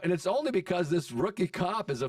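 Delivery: acted-out high-pitched argument; indignant rant. Acted quarrel with angry buddy.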